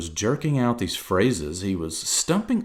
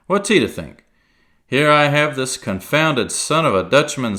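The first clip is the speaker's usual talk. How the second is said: loud, higher coaxing sea cook; wheedling pirate; 5 semitones higher, 6 dB louder than usual. Acted. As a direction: sweet-talk him like an old pirate. Silver role.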